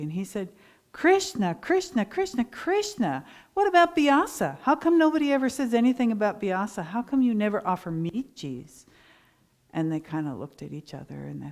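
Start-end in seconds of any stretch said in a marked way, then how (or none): 0.9-8.8 high, loud, indignant complaint; mock anger. Sage Vyasa pretending anger at the milkmaids, loud high indignation. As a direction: play the sage's fake outrage, pitched up. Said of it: "he acted angry".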